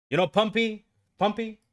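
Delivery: playful high question. Real, not acted. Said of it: "teasing the word pumpy".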